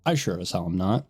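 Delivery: stuffy sinus-blocked nose; nasal voice. Real, not acted. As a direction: talk through a congested nose. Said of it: "excuse my nasally voice".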